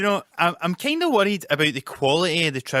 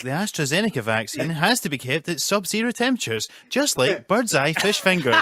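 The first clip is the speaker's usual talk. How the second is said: advert presenter; 2 semitones higher than usual. Acted. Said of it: "hosting the Iceland adverts".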